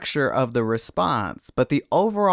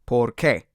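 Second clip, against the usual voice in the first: "Por qué" with the weight on qué; "Por qué", stressed on the final syllable; 2 semitones lower than usual. Shown as a demonstration. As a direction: land firmly on the second word, "qué". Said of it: "the stress is on the qué".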